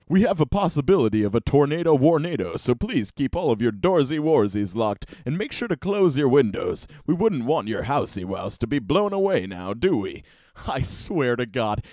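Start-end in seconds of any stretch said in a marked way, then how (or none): 0.1-10.2 cutesy singsong reading voice; mock baby talk. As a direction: read it like cooing at a toddler. Reading a baby-talk post aloud.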